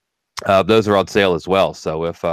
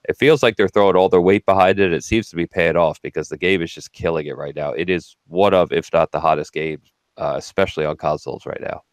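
stuffy nose from a cold; nasal voice. Real, not acted. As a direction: talk through a blocked nose. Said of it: "You sound a little na-, nasally over there".

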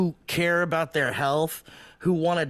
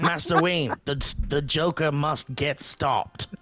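Southern turning British; 3 semitones lower than usual. Retold or imitated. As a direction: start Southern, drift into a British butler. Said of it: "Southern accent to high class British posh".

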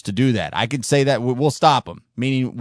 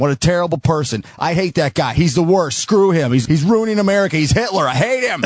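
mock outrage; 3 semitones higher than usual. Sarcastic mock outrage rant.

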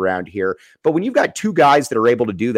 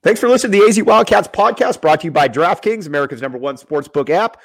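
upbeat, raised podcast intro; sponsor read; 5 semitones higher, 4 dB louder than usual. Real, not acted. Host thanking listeners and naming the sponsor, announcer-style read. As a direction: punch out the show open, then settle into the sponsor tag.

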